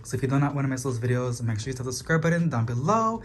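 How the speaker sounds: quick, hurried run-through; rushing to get through everything; speaking super fast. Real, not acted. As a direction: rattle it off quickly. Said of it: "I'm sorry if I'm speaking super, super fast".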